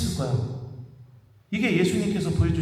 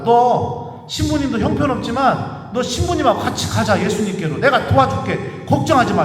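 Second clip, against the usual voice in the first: louder, fervent retold plea; impassioned plea; 4 semitones higher, 5 dB louder than usual. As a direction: urge him on with all your heart. Priest's emotional plea to seminarian. (신학생을 끌어안고 격려하며 열정적으로 외치듯)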